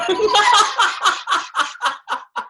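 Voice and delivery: a high burst of real laughter. Real, not acted. Speaker laughing at his own joke to the crowd, a high real laugh.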